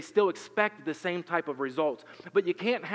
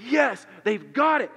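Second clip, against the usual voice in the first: hopeful relief; 9 semitones higher, 9 dB louder than usual. Retold or imitated. Parent's hopeful thought.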